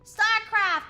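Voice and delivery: loud, high burst of excitement; excited recognition. Real, not acted. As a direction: exclaim it like a thrilling find. Spots a familiar game title.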